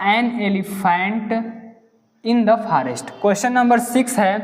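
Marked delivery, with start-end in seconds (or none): 0.1-3.1 slow question read. Shown as a demonstration. Reads answer slowly.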